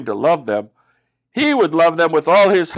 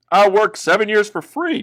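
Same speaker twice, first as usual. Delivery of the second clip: Jacob's offer; 7 semitones higher than usual. Acted. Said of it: "Jacob said".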